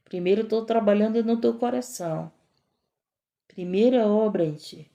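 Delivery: calm divine reassurance. Retold or imitated. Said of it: "E o Senhor disse".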